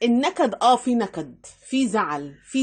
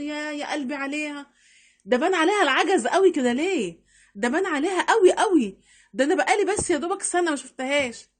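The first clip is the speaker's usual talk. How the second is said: higher-pitched acted dismay; mock pity; 3 semitones higher than usual. Woman on seeing an acquaintance who aged within a year, pitying. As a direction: lightly act out pitying surprise.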